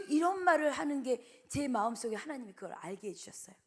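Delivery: ordinary talk, nothing marked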